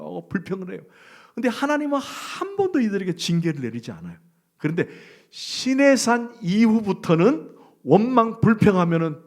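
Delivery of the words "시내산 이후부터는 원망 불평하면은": louder, higher and slow, driving it home; forceful preaching. Acted. Preacher hammering home the turning point to the congregation, loud and slow.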